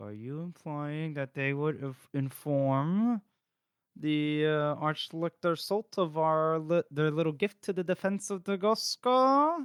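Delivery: words held in, lips scarcely moving. Retelling a book scene, acting out a character's line: imitating speaking with barely moving lips. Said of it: "without scarcely moving his lips".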